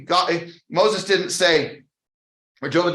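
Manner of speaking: normal talking voice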